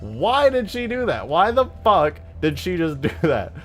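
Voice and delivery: incredulous questioning, rising high on the repeat; flabbergasted. Retold or imitated. Streamer retelling his bafflement at the cat, flabbergasted. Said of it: "flabbergasted because I'm like".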